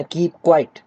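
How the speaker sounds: a hint of a teacher hushing pupils; imitated teacher. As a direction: mimic a teacher calling for silence. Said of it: "अक्सर आपसे teacher कहती है ना".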